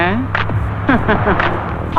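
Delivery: soft nervous chuckle; nervous laugh. Acted. Man nervously laughing at two hulking thugs, a soft chuckle. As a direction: laugh to cover unease.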